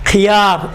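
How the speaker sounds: خیار with a light kh and narrow "i"; unrounded "khi" in خیار; thin, light. Shown as a demonstration. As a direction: keep the first syllable of خیار thin. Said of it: "باریک".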